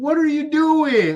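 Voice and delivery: very high, stretched, drawn-out scolding yell. A video maker acts out yelling at his former self, mock-yelling at former self. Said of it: "I'm yelling at my former self".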